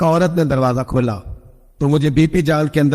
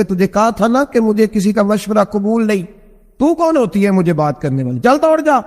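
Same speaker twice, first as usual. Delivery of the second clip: higher, rising to a sharp dismissal; scolding husband; 5 semitones higher than usual. Retold or imitated. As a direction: brush her off angrily. Husband scolding wife in story. (غصے میں جھڑکنا)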